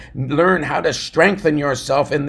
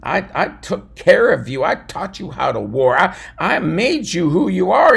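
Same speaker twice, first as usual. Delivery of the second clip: mock ridicule. David scolding his six hundred men, mildly hammed. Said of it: "begin to ridicule them and saying".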